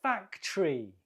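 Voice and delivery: "Factory" as FAC-tree; two syllables, first stressed. Shown as a demonstration. Teacher confirming the answer, "Factory" in two syllables, first stressed. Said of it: "The first syllable is stressed".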